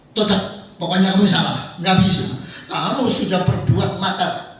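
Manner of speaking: king who won't listen; stubborn angry king. Acted. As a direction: hammer the verdict home. Saul refuses the explanation.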